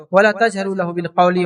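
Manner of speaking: slow, drawn-out chanted phrase; recited verse. Acted. Preacher quoting the verse again, slow chant. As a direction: intone it like scripture.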